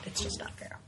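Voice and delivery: mock whine. Mock complaint about weather.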